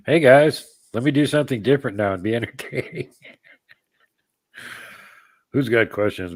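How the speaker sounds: loud, high mock show-host greeting; hammed-up host hype. Streamer jokingly entertaining chat alone, hammed-up host voice. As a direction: ham it up like a TV presenter. Fills time while co-host away.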